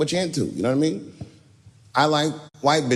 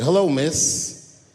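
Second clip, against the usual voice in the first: polite greeting; 2 semitones higher, much slower than usual. Retold or imitated. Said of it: "I kept my cool. I was nice".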